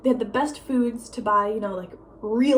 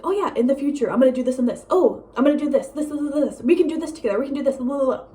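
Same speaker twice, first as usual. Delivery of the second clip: higher, singsong mimicry of empty promises; imitated over-keen promiser; mock eager promises; 3 semitones higher than usual. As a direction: reel off big plans, mocking an ex.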